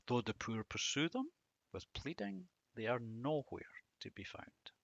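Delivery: quiet, fading into a whisper; sorrowful hush. Acted. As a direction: let the verse sink into sadness. Reading the verse.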